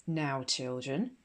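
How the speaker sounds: slow, firm schoolmistress opener. Acted. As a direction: draw it out, firm and in charge. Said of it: "began Miss Enderby firmly".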